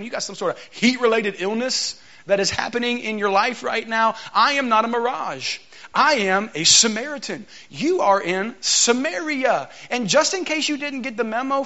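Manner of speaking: mock the stranger who dared ask for water, rising into indignation; sassy Samaritan woman. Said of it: "that is not how it sounded".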